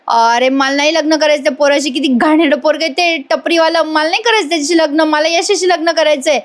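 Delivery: lightly voiced stubborn bride; defiant girl. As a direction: bride refusing the groom, rushing her words. Nami refuses the marriage.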